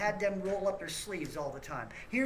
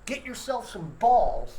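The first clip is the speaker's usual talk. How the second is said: slow, louder and hammered out; angry rant; 6 dB louder, slower than usual. Real, not acted. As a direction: spit each word at them. Rant insult, slow and loud.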